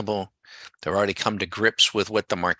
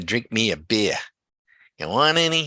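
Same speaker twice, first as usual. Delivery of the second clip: put-on Boston accent; 3 semitones higher than usual. Recalling a woman from a beer commercial, quoting her in a fake Boston accent. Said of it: "with her bo- fake Boston accent".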